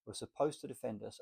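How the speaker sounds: normal talking voice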